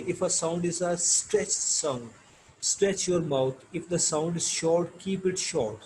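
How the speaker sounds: slow, deliberate textbook read-aloud. Acted. Teacher reading English lesson text to students, slow measured reading. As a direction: read it out slowly, phrase by phrase.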